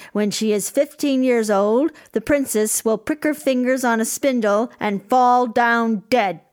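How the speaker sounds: loud, menacing curse from a wicked fairy; ghastly voice. Acted. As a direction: pronounce the doom coldly. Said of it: "in a ghastly voice".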